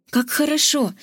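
delighted cry; exclaiming. Acted. Zok exclaims, happy with his plaster. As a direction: Zok cries out happily. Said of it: "воскликнул Зок".

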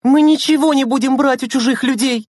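high, indignant outburst; raging scolding. A narrator's reading. Lena forbids strangers' gifts, raging. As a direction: lay down the rule angrily. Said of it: "бушевала Лена".

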